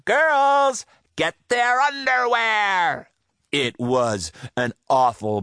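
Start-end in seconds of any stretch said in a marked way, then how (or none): 0.1-3.1 called order. Acted. Woman pirate captain calling her crew to grab underwear. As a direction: call your crew to charge. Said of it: "Stinky Ann called to her crew".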